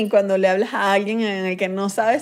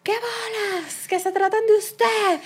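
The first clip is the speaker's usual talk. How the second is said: mock surprise; 9 semitones higher, 4 dB quieter, much slower than usual. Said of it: "Y la gente que".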